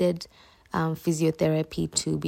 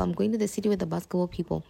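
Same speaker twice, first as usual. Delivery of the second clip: even faster, dropping off; rushed repeat; much faster than usual. Retold or imitated. Repeating her plans to everyone, rushed and trailing off. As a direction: toss the repeat off in a hurry. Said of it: "I was telling everyone".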